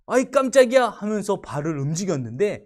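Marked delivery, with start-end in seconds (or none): 0.1-0.9 startled cry. Acted. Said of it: "이 코끼리가 놀라서".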